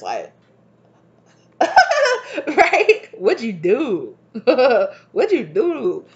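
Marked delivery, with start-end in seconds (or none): 1.6-6.1 high, loud giggle breaking into the words; hammed-up giddy amazement, pitched way up; giddy mock lover. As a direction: act blown away, laughing and squealing the question. Acting the giddy, blown-away man.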